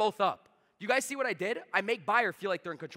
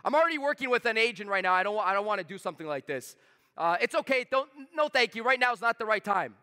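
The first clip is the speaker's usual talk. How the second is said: louder brush-off from a reluctant buyer; playing the prospect; 4 semitones higher, 5 dB louder than usual. Coach playing the buyer's objection, firm brush-off. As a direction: push the agent away firmly but politely. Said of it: "role play with me".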